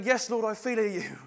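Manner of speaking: hammed-up eager agreement; eagerly oblivious. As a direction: answer too readily, missing the point. Acting Peter missing Jesus's meaning.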